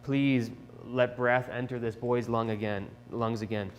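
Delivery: slow, restrained plea; understated begging in prayer; pleading. Acted. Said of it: "So he's pleading with God".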